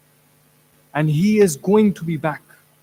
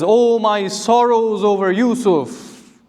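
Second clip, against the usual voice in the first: slow, drawn-out lament, imitating a grieving father; sorrowful lament; slower than usual. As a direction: draw out the cry of sorrow, without real sobbing. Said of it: "he is crying and he says".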